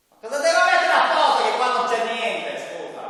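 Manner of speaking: high, loud, fast puppet complaint; indignant little puppet protesting; italian puppet voice. Acted.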